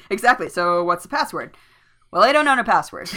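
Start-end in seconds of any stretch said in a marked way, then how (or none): 2.1-3.1 fast, loud, higher gruff dwarf reply; mock gruff dwarf. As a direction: bark it out like a huffy dwarf. Gimli voiced, joking retelling.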